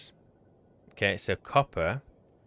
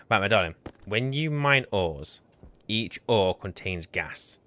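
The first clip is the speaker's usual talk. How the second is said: patronising tone. Real, not acted. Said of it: "without the tone".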